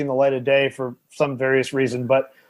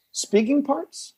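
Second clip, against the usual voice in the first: higher, slow sceptical question; snide doubt; 11 semitones higher, much slower than usual. Retold or imitated. Seatmate doubting the actor's film list, slow and snide. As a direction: drag it out as a sneering put-down.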